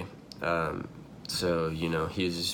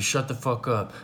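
mild mock yell, pitched higher; half-hearted higher-pitched imitation of a yell; retold yell; 5 semitones higher than usual. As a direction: imitate yelling over at people, without real volume. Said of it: "like, yells over".

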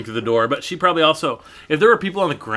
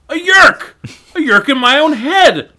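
horrified realization; 11 semitones higher, 6 dB louder than usual. Acted. Jake's horrified realization, read aloud.

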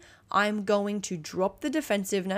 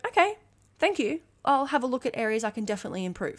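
bright acceptance; 3 semitones higher, faster than usual. Retold or imitated. Gracious acceptance of feedback.

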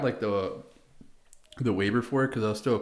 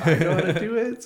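louder, higher bold declaration; confident claim; 9 semitones higher, 7 dB louder than usual. Retold or imitated. Corporal boldly telling officers he can do it, louder. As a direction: announce it with sudden confidence. Volunteering, then asserting he can.

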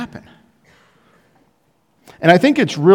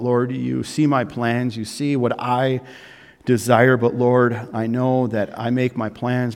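sample prayer; 4 semitones lower than usual. Retold or imitated. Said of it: "this attitude of like".

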